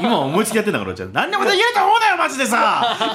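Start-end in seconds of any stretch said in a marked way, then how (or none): 1.1-3.1 much higher and louder fast warning; mock shout. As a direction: bellow it at the audience. Repeated catchphrase, now ramped up.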